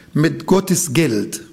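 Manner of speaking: usual speaking voice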